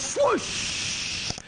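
airy swoosh. Retold or imitated. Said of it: "And he goes".

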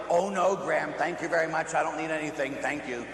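lightly acted polite refusal; courteous mock no-thanks. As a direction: decline politely, easing down at the end. Playing polite game with grandmother.

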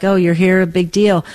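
mildly bored, offhand greeting; a loved one barely noticing you're home; unimpressed. Retold or imitated. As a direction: shrug it off like nobody cares you came home. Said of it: "they look at us like".

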